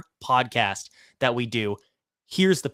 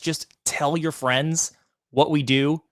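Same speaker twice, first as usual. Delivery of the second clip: usual speaking voice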